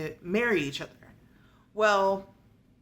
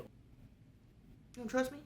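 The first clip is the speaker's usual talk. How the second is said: mock whisper; 5 semitones higher, 12 dB quieter, much slower than usual. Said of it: "And he's like".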